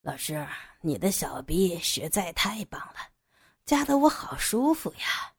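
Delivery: low breathy whisper of pleasure; excited whisper. Acted. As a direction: whisper it, thrilled and close. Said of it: "杨野兴奋地说". (兴奋地低声耳语)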